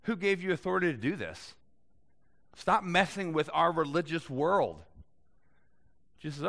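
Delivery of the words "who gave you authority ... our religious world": mild indignant challenge. Retold or imitated. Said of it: "The Jewish leaders".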